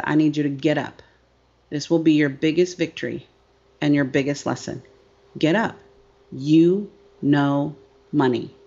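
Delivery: a hint of a calm guiding voice; inner voice. Speaker retelling the voice in her head, low and firm. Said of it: "I heard this voice in my head that said".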